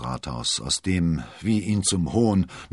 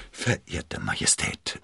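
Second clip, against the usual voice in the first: slow, low, hesitant address to a king; stammering; 9 semitones lower, slower than usual. A narrator's reading. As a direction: falter uneasily, low and slow. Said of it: "stotterte er".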